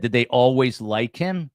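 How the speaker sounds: "Did they always like him?" lifted as a rhetorical question. Retold or imitated. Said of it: "asked sort of a rhetorical question".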